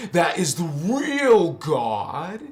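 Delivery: slow, loud declaration; slow shout. Real, not acted. Preaching the real God to viewers, slow shout. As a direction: proclaim it slowly.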